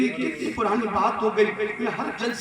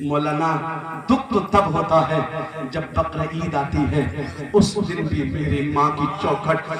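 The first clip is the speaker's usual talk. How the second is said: put-on boy's lament; 6 semitones lower than usual. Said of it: "بچے نے پھر ایک بات اور کہی".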